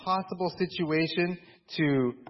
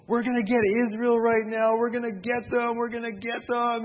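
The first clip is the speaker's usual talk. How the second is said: excited eager; 6 semitones higher than usual. Retold or imitated. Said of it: "And they're all excited".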